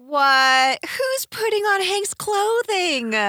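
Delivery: high, slow incredulous question; shocked. Real, not acted. Shocked at women wearing clothes.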